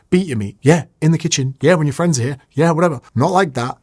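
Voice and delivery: cheeky joking delivery of a hook; teasing, playful demo; playful banter demo. Shown as a demonstration. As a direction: show how banter lands. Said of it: "this is what I'm saying".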